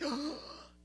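sharp mock gasp of adrenaline; imitated gasp. Preacher mimics a skydiver the moment they jump, imitated gasp. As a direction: gasp as if just out of the plane.

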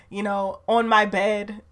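ordinary delivery

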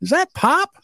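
high, startled double take; a sudden "wait, is that him" while driving; retold shock at spotting grandpa by the road; surprised. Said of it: "I go".

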